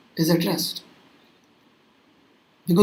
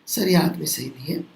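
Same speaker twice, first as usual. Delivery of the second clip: confiding complaint; 5 semitones lower, 8 dB quieter than usual. Acted. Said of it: "अलग से ले जाके आपसे कोई पूछेगा".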